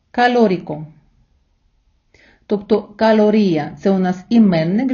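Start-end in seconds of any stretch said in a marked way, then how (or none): 0.1-0.9 калоріко said slowly, stress on ри; slow model word. Shown as a demonstration. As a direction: pronounce калоріко carefully for students to repeat. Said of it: "я буду читати повільно, робити паузу".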